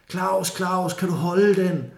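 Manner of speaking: high, urgent call to a friend; calling to Claus as the canoe slips away, high and urgent. Retold or imitated. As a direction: call out anxiously up the bank. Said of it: "så siger jeg".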